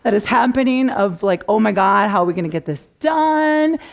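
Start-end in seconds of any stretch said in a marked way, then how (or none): 1.5-3.8 mock panic. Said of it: "this panic moment".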